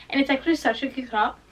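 talking around a piece of gum; words blurred by gum chewing. Real, not acted. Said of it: "Sorry, I have gum in my mouth".

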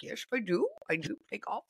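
badly faked Irish accent; attempted Irish accent. Telling of Irish announcer asked about golf, attempted Irish accent. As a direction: have a half-hearted go at an Irish lilt. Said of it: "I can't even do the right accent".

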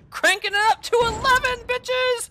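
rousing mock-triumphant call; hyped-up battle cry. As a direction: crank up the hype as you go. Hypes himself for another attempt.

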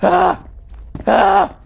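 short, high startled cries; frightened yelps. Real, not acted. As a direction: yelp in fright. Frightened while playing.

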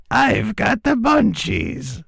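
high, slow stoned voice; stoner voice. Pretend. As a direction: whine it out, totally baked. Stoned munchies joke.

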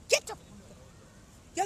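high, slow hissed order; slow mock scold. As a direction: drag out a scolding command. Comic quarrel, ordering her up.

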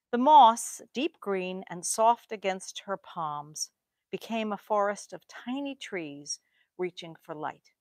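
slow, measured poetry quote; opening words set apart, then unhurried verse; poem reading. Acted. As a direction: read the lines out slowly, savoring each phrase. Reads lines of a poem aloud.

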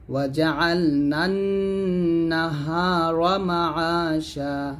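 slow melodic tajweed chant; Quran recitation. Shown as a demonstration. Teacher recites the verses for students, slow chant. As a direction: draw each verse out in a slow melodic line.

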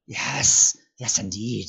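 eager, hissing creature. A narrator's reading. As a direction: agree eagerly as a wheedling creature. Gollum agreeing to help Frodo.

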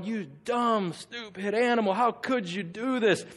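scolding word by word, stretched at the end; mock a scolding given one beat per blow; mock syllable-by-syllable scolding. Balaam whipping his donkey, mock syllable-by-syllable scolding. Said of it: "one of those syllable whoopings".

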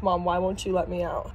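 a hint of a puzzled pet; lightly voiced dog. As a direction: lightly voice the dog asking mom. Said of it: "Winnie's literally staring at me like".

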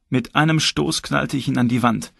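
ordinary delivery, nothing marked

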